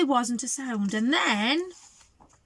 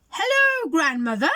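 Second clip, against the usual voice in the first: mock growl; 6 semitones higher, 6 dB louder than usual. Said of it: "growled the wolf".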